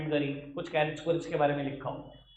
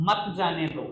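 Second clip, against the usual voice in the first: मत जाने दो kept together after a pause; मत joined to जाने दो, falling at the end; phrase after comma. Shown as a demonstration. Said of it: "comma है".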